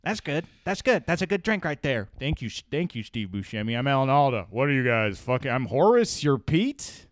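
Steve Buscemi impression. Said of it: "What does Steve Buscemi sound like?".

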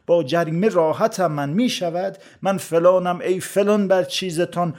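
measured storytelling poem recital; verse recitation. A narrator's reading. Narrator tells a comic verse tale of onions, recited verse. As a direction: recite it as rhymed verse, leaning on the metre.

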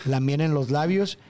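recited lyric, evenly; reading lyrics. Shown as a demonstration. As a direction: read the lines like a poem.

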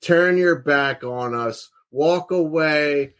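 slow, drawn-out promo taunt at his dad; wrestling promo taunt. Retold or imitated. Son on the mic taunting his father, slow and bitter. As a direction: stretch each word like a bitter promo. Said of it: "the kid gets on the microphone and he goes".

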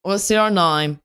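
loud, hammed-up Aussie pickup; Australian guy. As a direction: blurt it out as a spluttering Australian at a bar. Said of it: "play the Australian guy".

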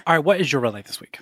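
hushed whisper, no voice. Pretend. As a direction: whisper it like a secret. Host starts the lights segment.

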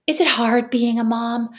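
put-on slow, sweet little-kid voice; lightly voiced child asking mom; voicing her child. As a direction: play the earnest nine-year-old. Mother voices her nine-year-old.

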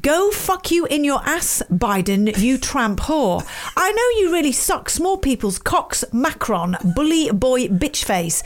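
mock official rant. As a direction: deliver each insult as a formal proclamation. Reads out written rant.

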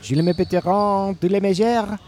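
put-on made-up French with a French accent; sing-song nonsense French; fake French. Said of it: "Faux French".

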